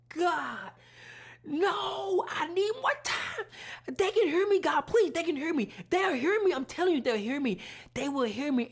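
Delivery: desperate plea to God. Retold or imitated. Pleading with God for time.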